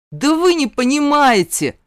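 high, loud furious roar. A narrator's reading. Zane roars at the mentor who refuses help. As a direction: roar it out in protest. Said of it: "взревела я".

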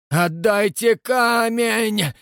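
slow, loud furious roar. A narrator's reading. Rastopchin senior roaring through the bars. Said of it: "ещё пуще заревел".

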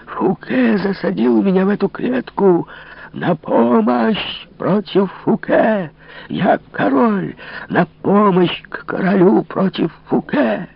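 очень высокий, медленный безумный вопль; вопи как обезумевший узник; дикий нечеловеческий крик. Acted. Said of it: "кричал диким, нечеловеческим голосом". (запертый король вопит о помощи, дико и очень высоко)

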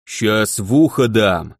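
slow, booming from under a helmet; inside a knight helmet. Acted. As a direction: rumble it out through a closed helmet. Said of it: "прогудел из-под шлема змей".

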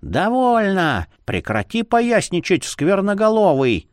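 high, indignant outcry; high-pitched scolding cry. A narrator's reading. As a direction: wail at the troublemaker to stop. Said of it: "возопила приказчица".

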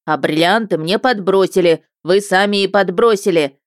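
loud accusing outburst; loud defiant yell; emboldened shout. Acted. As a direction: hurl the accusation. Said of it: "продолжил, приободрившись".

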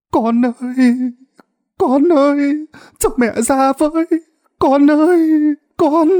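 put-on high, slow, tearful old mother crying out; desperate calling. A narrator's reading. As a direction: call through the door, begging. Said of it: "đập cửa gọi tên thằng con mình".

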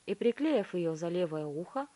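ordinary delivery, nothing marked

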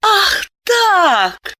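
высоко и с ехидством; подколи мужа; ехидно. A narrator's reading. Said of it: "ехидно прищурилась Диана". (ехидное «ах так»)

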